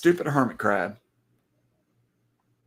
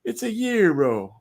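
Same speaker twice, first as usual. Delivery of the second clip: mock Greek accent; 8 semitones higher, slower than usual. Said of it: "I don't know what a Greek accent sounds like".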